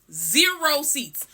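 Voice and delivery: "Zero" drawn out slowly for emphasis; slow, weighty "Zero", then "seats"; stress on Zero. Real, not acted. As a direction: lean hard on the word "Zero". Repeats for emphasis.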